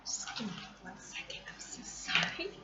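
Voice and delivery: hushed, unvoiced apology; soft whispered sorry. Real, not acted. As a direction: whisper it so no one hears. Answering mom off-camera.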